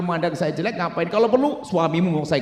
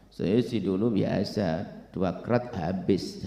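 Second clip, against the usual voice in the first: boastful ex-drinker; 8 semitones lower, 4 dB quieter, much slower than usual. Retold or imitated. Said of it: "katanya sudah tobat dari mabuk".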